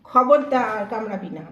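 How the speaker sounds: loud sharp warning shout. Real, not acted. Owner warning her dog not to bite, loud. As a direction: snap out a warning to stop him.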